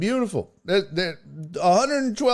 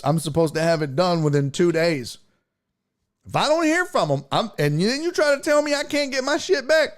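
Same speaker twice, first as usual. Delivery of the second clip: mock Karen rant. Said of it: "that was a fun Karen rant".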